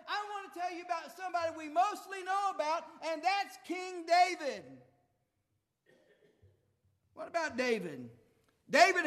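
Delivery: high, rising preacher's build; preaching. Acted. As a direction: stir up the church with the story.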